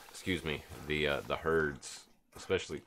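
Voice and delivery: talking through hiccups; hiccuping between words. Real, not acted. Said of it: "excuse me, I got the hiccups now".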